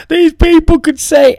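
high, tearful wail; mock crying. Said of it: "he's crying".

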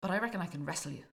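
lightly put-on folktale accent; continue in a folktale hero's accent; not-quite-Scottish folktale accent. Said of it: "my folktale accent".

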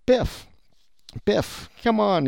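high, drawn-out mock welcome; acted hailing. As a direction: call a regular over, pitched well up. Acted shopkeeper hailing customer Biff.

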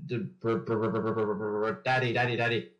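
low propeller brr into repeated daddy; half-hearted engine sputter, slightly low; sputtering airplane noise. Pretend. Speaker grudgingly doing requested triplane noise, low sputter. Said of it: "what airplane noise to make".

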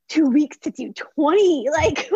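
laughing through the words at her own disbelief; breaking into real laughter mid-sentence. Real, not acted. Telling the interviewer about the overwhelming order, laughing.

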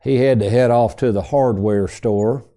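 lightly imitated southern drawl. Framer answering where the tech went, southern drawl. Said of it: "in kind of a southern drawl".

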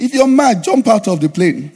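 loud comeback, dropping in pitch; imitated blunt retort; retold retort. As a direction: fire back as the rude passenger. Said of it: "The guy said".

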